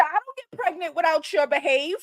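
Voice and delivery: mock girlfriend scolding in broken English; imitating her broken English. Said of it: "in her broken English".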